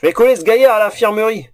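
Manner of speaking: loud bossy matron; bossy innkeeper voice. Acted. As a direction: bark out the chores. Herda bossing everyone around. (voix de patronne autoritaire)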